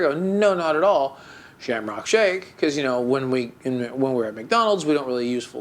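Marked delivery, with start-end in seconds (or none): 0.2-2.6 mock-commanding, mashed-together words; commanding tenor. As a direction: correct the server in terse ordering style. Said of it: "in kind of a commanding tenor".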